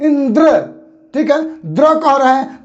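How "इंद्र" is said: इंद्र with extra force on final द्र; stress on द्र. Shown as a demonstration. Teacher modelling practice for pupils, stress on द्र in इंद्र. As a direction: press firmly on the द्र of इंद्र. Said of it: "बोलकर अभ्यास कीजिए आप लोग".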